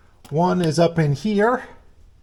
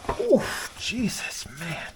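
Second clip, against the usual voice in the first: groaning through real pain; strained, pained exclamation; biting down on pain; 6 semitones higher, 4 dB quieter, much slower than usual. Real, not acted. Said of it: "I'm in a lot of pain right now".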